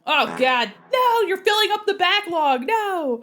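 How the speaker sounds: loud, high-pitched playful protest; mock-panicked shout. Streamer protesting as viewers fill the backlog, mock-panicked shout. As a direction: cry out in exaggerated dismay.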